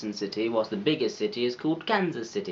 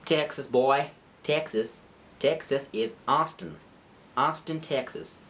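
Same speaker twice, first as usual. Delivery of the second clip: put-on Texas accent. Vlogger trying out Austin, Texas with a put-on Texas accent. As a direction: try on a hammy Texan accent. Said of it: "my accents".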